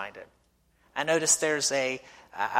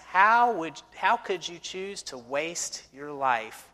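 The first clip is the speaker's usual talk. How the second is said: scornful neighbor; slower than usual. Retold or imitated. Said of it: "he said to us".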